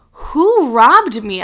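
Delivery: hammed-up disbelief; mock outrage. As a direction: act out being robbed, stretching it out. Acts out discovering the bank fee.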